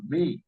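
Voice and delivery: ME set apart as the strong syllable; stress on ME. Shown as a demonstration. Teacher showing the stressed syllable, ME held on its own. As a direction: give me its own beat, held. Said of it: "la fuerza de voz está en la sílaba".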